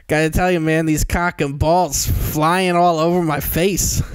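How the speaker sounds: slow, gruff tough guy; gruff person. Pretend. Host playing a gruff tough guy, slow and gruff. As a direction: lay it on thick like a tough guy. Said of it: "a very gruff person".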